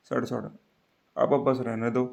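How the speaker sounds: slow demo. Shown as a demonstration. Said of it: "ऐसे बोलते हैं ना स्पिन बोल पे".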